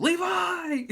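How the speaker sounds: high, loud fairy call. Acted. Fairy calling the hero, high and loud. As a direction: call his name like a tiny fairy.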